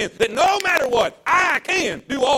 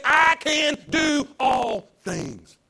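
preaching climax; 3 semitones higher, much slower than usual. Acted.

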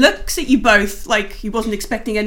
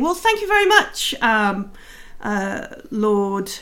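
Lady Silverhand; 2 semitones higher than usual. Acted. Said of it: "you can hear her saying".

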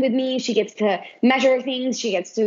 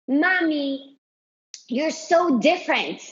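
child's admiring remark, retold a bit higher; admiring compliment; 4 semitones higher than usual. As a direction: lightly imitate a child paying a compliment. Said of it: "didn't say it in a condescending way".

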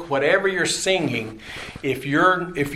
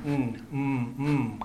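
hummed mm; 7 dB quieter, much slower than usual. Shown as a demonstration. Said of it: "guttural thing starting in mm".

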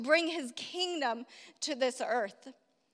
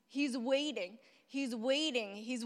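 hushed repetition; 6 dB quieter than usual. Real, not acted. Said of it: "hushed repetition".

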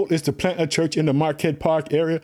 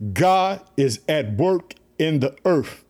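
each word laid down slowly; a slow, weighty declaration to the family; slow preaching emphasis; slower than usual. Real, not acted. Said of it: "Did you hear me, family?".

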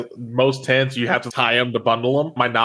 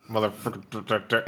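much softer, slow curse under the breath; mumbled curse; 2 semitones lower, 8 dB quieter, slower than usual. Acted. Sore loser Alex cursing under his breath at CJ. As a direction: grumble it so he can't hear. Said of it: "mumbling under his breath".

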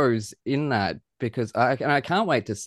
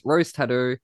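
"Rose Tattoo" in the host's broad Australian accent, the o long and drawn. Real, not acted. Host naming the band in his Australian accent. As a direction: say "Rose Tattoo" like a true Aussie. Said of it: "I loved the way you said Rose Tattoo".

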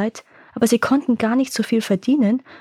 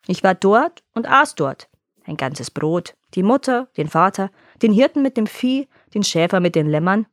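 gloating monster. Acted. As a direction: savor each thing you've eaten. Monster boasts to farmer.

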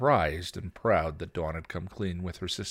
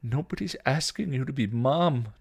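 loud, higher-pitched insistence; emphatic, exasperated protest; insisting; 7 semitones higher, 6 dB louder than usual. A narrator's reading. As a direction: insist firmly in a quarrel. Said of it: "Dawn insisted".

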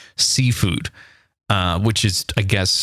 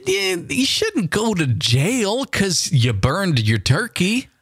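squeaky incredulous objection; high indignant protest; 9 semitones higher than usual. Real, not acted. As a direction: pitch jumps very high in disbelief.

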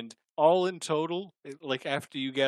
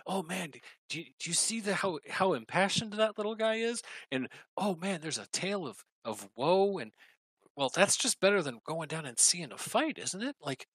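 excited orc chatter; 6 semitones higher than usual. Acted. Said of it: "talking excitedly to one another".

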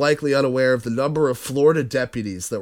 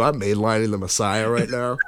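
silly put-on voice; 3 semitones lower, 4 dB quieter than usual. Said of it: "in that voice".

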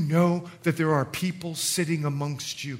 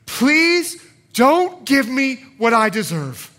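slow, higher-pitched earnest plea; humble pleading; 4 semitones higher, 4 dB louder, slower than usual. Acted. Beggar explaining mercy to Jesus, humble pleading. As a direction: beg slowly, drawing out the please. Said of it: "Do you hear the humility in that?".

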